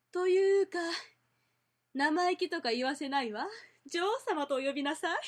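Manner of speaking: haughty queen. Shown as a demonstration.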